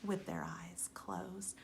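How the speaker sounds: soft whispered finish; hushed ending whisper. A narrator's reading. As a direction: whisper the last words. Playful story ending.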